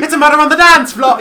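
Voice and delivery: high, loud theatrical alarm; sing-song panic like a cartoon fairy; dramatic musical fairy. Repeating the musical line.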